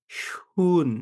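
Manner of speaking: শুন whispered with a long sh sound; teacher whispers a German word to show the sh sound; whispered model word. Shown as a demonstration. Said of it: "এটার উচ্চারণ হচ্ছে শ এর মতো".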